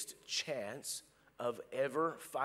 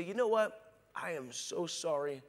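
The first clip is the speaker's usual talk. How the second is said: a touch of humble tenderness; sincere apology. Retold or imitated. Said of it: "and just say".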